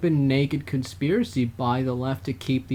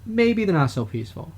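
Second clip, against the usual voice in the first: sarcastic politician impression; mocking Democrats; 5 semitones higher than usual. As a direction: parody their shifting excuse. Mocking Democrats' new line.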